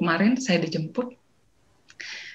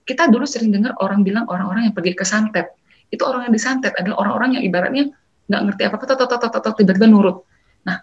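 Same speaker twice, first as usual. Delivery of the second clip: ordinary talk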